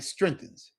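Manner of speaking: strengthens said in two syllables, strength-ens; English strengthens. Shown as a demonstration. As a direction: run strengthens together English style. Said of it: "two syllables".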